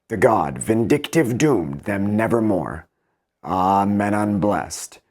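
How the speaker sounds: slow, measured heroic couplets; poem reading. Acted. Teacher reading Pope's Odyssey aloud, slow and rhythmic. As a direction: let each rhyme land at the line end.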